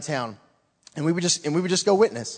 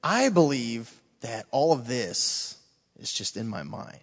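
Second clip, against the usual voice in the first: imitating the lost guy; 6 semitones lower, 6 dB quieter, slower than usual. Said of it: "So he said".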